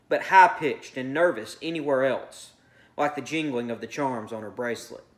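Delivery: measured read-aloud of a short story; narrating fiction to a class; story narration. A narrator's reading.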